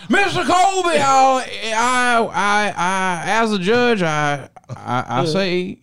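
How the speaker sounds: pompous judge thundering from the bench; blustering judge. Acted. Mock trial, judge ruling.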